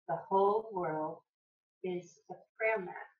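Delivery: measured, projected recitation of a quote; quote reading. Acted. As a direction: recite it in deliberate phrases, pausing between. Reads an inspirational quote aloud.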